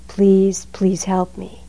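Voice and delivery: mock desperate begging. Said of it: "you're begging".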